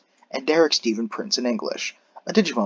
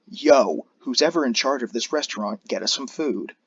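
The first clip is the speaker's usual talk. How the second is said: shouting. Acted. Maria yelling at restaurant owners.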